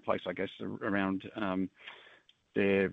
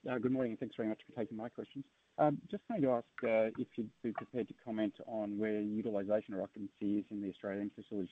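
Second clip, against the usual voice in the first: muffled, far from the microphone; 4 dB quieter than usual. Real, not acted. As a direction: speak as if through a hand over mouth. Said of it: "it's very muffled".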